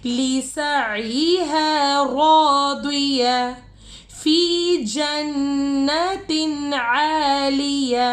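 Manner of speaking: slow melodic tajweed chant; Quran recitation. Acted. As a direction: draw out each verse in measured chant.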